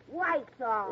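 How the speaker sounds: Lysol said as "Wysol" again with a w; mispronounced Lysol. Acted. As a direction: say "Lysol" with a w, not an l.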